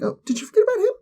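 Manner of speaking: sly high whisper; mocking villain whisper. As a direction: breathe it out like a secret taunt. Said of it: "She's like".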